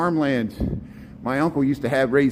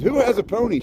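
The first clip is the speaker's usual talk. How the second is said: imitating Seinfeld; 9 semitones higher than usual. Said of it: "he says".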